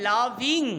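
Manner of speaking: লাভিং drawn out as two syllables, লাভ and ইং; syllable split. Shown as a demonstration. Teacher splitting a word into syllables, লাভিং said in two slow parts. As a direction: slowly break লাভিং into লাভ-ইং. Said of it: "লাভিংকে ভাঙলে লাভ যোগ ইং".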